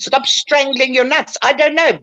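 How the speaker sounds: mock outburst, pitched high; retold defiant outburst. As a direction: throw it back at them, defiant. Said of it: "then one day I decided".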